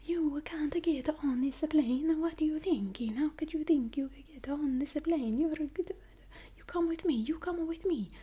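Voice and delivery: hammed-up Italian agent shouting in a whisper; Italian accent yelling. Agent yelling at her, in a whispered Italian accent. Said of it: "She just wanted to yell".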